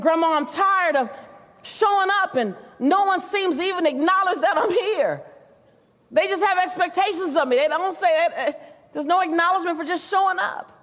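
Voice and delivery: rising, pleading complaint to grandma; a young swimmer venting to her grandmother, voice lifted and pleading; heated complaint. Retold or imitated.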